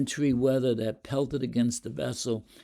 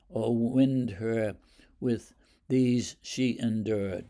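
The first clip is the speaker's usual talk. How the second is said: measured poetry recital; poem reading. Shown as a demonstration. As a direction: read the stanza aloud with drama. Teacher rereads the full stanza.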